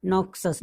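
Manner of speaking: "नोक्सस" said with ks in the middle; pronunciation demo. Shown as a demonstration. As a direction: read out "नोक्सस" as NOK-sus. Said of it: "क्या पढ़ा है".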